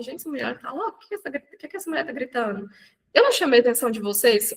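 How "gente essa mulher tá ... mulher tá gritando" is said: much softer, baffled muttered aside; soft, bewildered viewer's aside; puzzled viewer. Retold or imitated. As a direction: murmur it like a confused viewer. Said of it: "Vocês vão falar assim".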